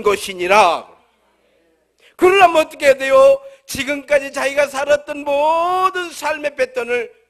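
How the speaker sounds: loud, ringing pulpit voice; full-force preaching. Acted. Preacher exhorting his congregation on new birth, loud. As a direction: proclaim each phrase to the back row.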